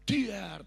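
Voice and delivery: sudden "diar" bang, falling away; imitated blast. Pastor showing the congregation a missile shot down, punched blast sound. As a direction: voice a missile bursting mid-air. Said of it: "nanti ditembak".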